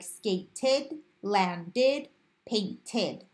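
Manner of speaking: "skated, landed, painted" with ed as its own syllable; ed as extra syllable. Shown as a demonstration. Teacher showing the first ED rule, ending sounded as a syllable. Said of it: "then it would say ed".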